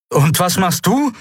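a high called-out question over the noise; calling Kai. A narrator's reading. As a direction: call out the question, pitched high. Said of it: "rief Kai".

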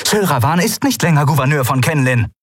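high, emphatic declaration; calling out. A narrator's reading. Kalin telling the captain Sylravan is deposed, calling out. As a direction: proclaim it to the captain. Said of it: "rief Kalin".

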